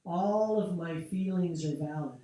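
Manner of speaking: loud, firm affirmation; a strong, full-voiced statement of self-acceptance; spoken with energy. Shown as a demonstration. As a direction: declare it out loud with force. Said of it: "speak it with energy".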